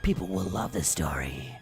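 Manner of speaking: hushed conspiratorial whisper. Acted. Narrator reassuring Zuzu, whispered. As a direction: whisper it like a secret.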